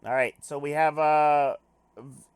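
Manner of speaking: normal talking voice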